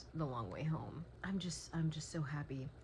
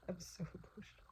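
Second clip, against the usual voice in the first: laughing emotionally; 2 semitones higher, 10 dB quieter, faster than usual. Real, not acted. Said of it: "I'm laughing, but I'm, like, dying inside".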